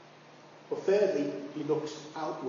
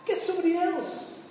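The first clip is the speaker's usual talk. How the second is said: reluctant Jeremiah; 12 semitones higher than usual. Retold or imitated. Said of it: "And Jeremiah said".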